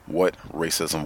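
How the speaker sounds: ordinary talk, nothing marked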